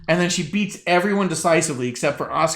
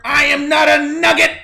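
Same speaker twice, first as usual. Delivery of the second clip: Owen Hart impression; 10 semitones higher, 5 dB louder than usual. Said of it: "I do Owen Hart".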